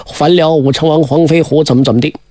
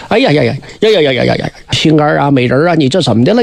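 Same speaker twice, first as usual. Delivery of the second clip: 慌张急促地连声哀叫, 语速快; 惊慌失措地喊心肝美人; 吓坏的纣王; 5 semitones lower, faster than usual. Acted. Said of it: "这可把纣王吓坏". (纣王惊慌急促地连声哀呼)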